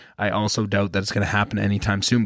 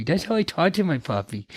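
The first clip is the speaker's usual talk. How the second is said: high, cutesy puppy voice; baby talk; 6 semitones higher than usual. Shown as a demonstration. Owner showing how he talks to his puppy, full baby talk. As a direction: coo it high like talking to a puppy. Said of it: "constantly baby talking with this little muffin".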